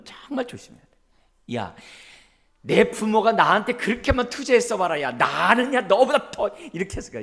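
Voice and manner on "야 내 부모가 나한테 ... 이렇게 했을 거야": higher, louder scornful parent; sarcastic rant. Retold or imitated. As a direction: lecture the kid with mocking contempt. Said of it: "비인격적인 언어들". (아이를 비꼬며 훈계하는 부모)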